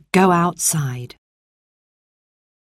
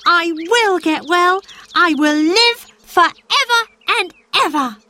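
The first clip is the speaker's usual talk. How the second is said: joyful vow; 12 semitones higher than usual. Acted. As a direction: savour every word as a promise. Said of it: "he cried".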